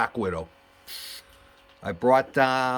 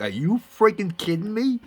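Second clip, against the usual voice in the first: higher, excited retold disbelief; amazed disbelief; 9 semitones higher, 3 dB louder than usual. To Paul Yeager, retelling his amazed disbelief. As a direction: let the astonishment spill out. Reacting to meeting Yeager's relative.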